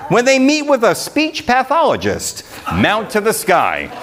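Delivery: rhythmic, sing-song reading of a Christmas poem; poem recitation. A narrator's reading. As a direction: read it like a holiday verse to the crowd. Reads Christmas poem to audience.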